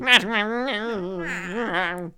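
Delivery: drawn-out creature cry; wordless lizard squawk; lizard noise. Pretend. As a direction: make a silly lizard noise. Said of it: "Lizard noises".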